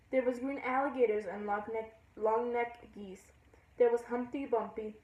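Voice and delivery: storytelling verse in a lilting rhythm; lightly singsong poem reading; poem recital. Acted. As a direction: read the rhyme aloud, easing off at line ends. Reads a poem aloud.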